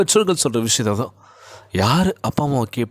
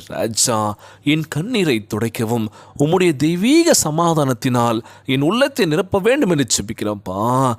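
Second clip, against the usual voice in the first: slow, drawn-out pleading prayer; earnest sing-song preacher's prayer. Real, not acted. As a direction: pray aloud with stretched phrase endings. Leads a prayer.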